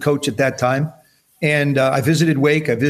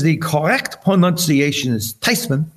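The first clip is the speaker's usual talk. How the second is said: grandmother's voice. Retold or imitated. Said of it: "She says".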